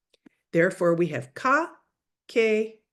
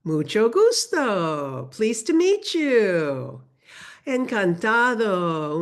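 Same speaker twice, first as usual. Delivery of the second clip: slow and deliberate; teacher modelling greetings slowly; slow model phrases; slower than usual. Shown as a demonstration. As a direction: lay out each phrase slowly for learners. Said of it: "responses to what".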